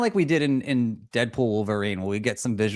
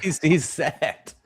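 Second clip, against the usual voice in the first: slow, raised, chuckled punchline; laughing; 4 semitones higher, slower than usual. Real, not acted. Co-host capping a joke about an actor's career, laughing. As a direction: let laughter stretch the words out.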